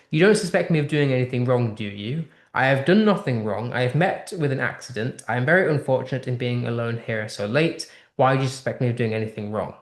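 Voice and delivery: quick, rushed defensive reading of her reply; a hurried, mildly frantic woman denying any wrong. Acted. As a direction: read it fast, like someone who feels accused. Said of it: "Her response is very defensive".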